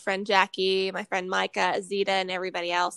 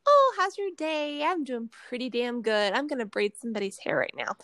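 tipsy phase two. Acted. Host showing her phase two of drinking, chummy and tipsy. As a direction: play a sociable, pleased tipsy self. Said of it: "Phase two is very like".

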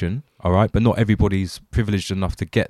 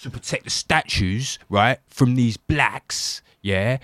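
slow, laddish London hooligan rant; 4 dB louder than usual. Pretend. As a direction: play a London football hooligan. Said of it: "pretend to be said hooligan in London".

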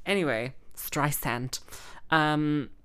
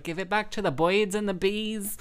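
impression of a singer; 5 semitones higher than usual. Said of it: "that's the voice that a singer".

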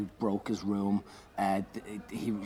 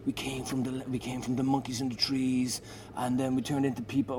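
slightly raised, earnest rock-star delivery; a rock singer impression; 3 semitones higher than usual. Retold or imitated. Comedian does a rock-singer bit on their knees, lightly put-on voice. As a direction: lightly voice a preaching rock singer. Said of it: "I do a Bono bit".

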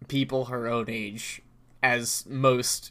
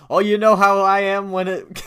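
higher, louder impression of a lovely old man; raised, hammed-up old-man voice; 7 semitones higher, 8 dB louder than usual. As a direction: play a chatty old fellow bursting in. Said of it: "just a lovely old man".

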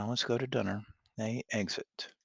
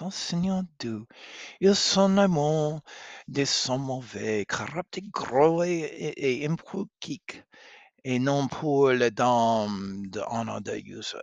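scandalized; 3 semitones higher, 5 dB louder than usual. Acted. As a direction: gasp at rude words. Catherine shocked by rude words.

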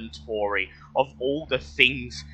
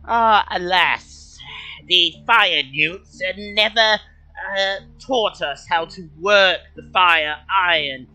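kobold voice; 7 semitones higher, 4 dB louder than usual. Acted. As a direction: speak as a polite high-pitched kobold. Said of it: "in surprisingly good common, he says".

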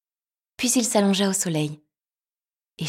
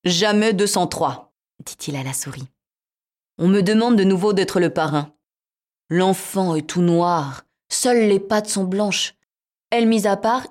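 cat voice; 2 semitones higher, 6 dB louder than usual. Acted. Cat voiced in fairy tale.

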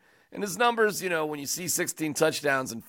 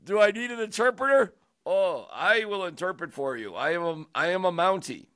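mock Canadian; 3 semitones higher than usual. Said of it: "'cause I'm speaking Canadian".

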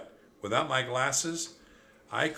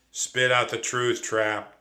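louder stern demand; 6 dB louder, slower than usual. Acted. Thea demands the truth from Trap, louder stern. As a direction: order Trap to confess, firmly. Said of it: "demanded my sister".

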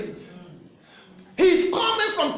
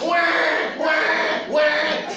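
mock baby crying; 2 semitones higher, much slower than usual. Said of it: "My daughter now begin to cry, like".

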